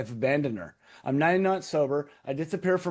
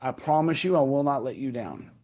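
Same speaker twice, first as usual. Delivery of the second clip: praying plea. Retold or imitated. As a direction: plead as if praying for forgiveness.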